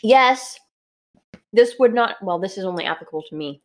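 talking while chewing; mouth full. Real, not acted. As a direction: speak around a mouthful of food. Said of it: "I'm so sorry I'm chewing".

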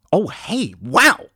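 loud and high, can't hear himself; temporarily deafened. Acted. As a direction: talk over headphones you can't hear through. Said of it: "I can't hear a thing".

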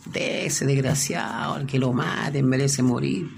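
mildly agitated, urgent pleading protest; retold desperation. Preacher retells dreamer pleading to spare Jesus, desperate. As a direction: plead on another man's behalf, a touch desperate. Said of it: "él se empezó a desesperar".

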